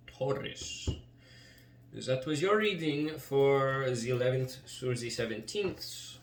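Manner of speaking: put-on slow, drawn-out German-ish accent; stretched words in a playful German accent. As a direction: slip into a heavy, deliberate German accent. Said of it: "I suddenly have an accent".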